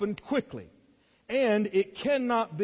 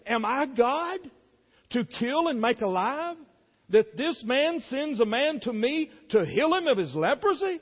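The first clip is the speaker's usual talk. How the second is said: higher, pleading cry of a king who tears his clothes; distressed king; 5 semitones higher than usual. Acted. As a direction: protest as if accused of playing God. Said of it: "he tore his clothes and he said".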